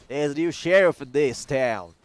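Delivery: a light Southern twang on a sheriff line; Southern accent. Pretend. Caster slips into a Southern sheriff voice as a joke. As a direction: drawl it like a small-town Texas sheriff, only lightly. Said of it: "I don't know why I did a super southern accent".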